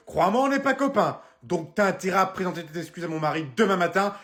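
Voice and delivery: fake-nice greeting turning into threats; threatening phone call. Wife calling husband's boss, sugary then menacing.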